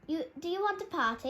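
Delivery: fast, loud and high party yell. A narrator's reading. Wolf yells to the forest about a party. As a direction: whoop it out quickly. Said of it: "yelled another".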